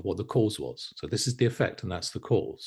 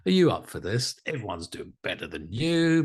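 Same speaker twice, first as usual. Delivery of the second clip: self-sabotage voice; 3 semitones higher than usual. Retold or imitated. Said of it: "that little part of us that goes".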